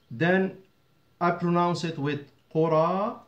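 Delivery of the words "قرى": قرى ending in a long open "aa"; alif ending. Shown as a demonstration. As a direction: say قرى as "quraa", without any n. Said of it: "with the alif".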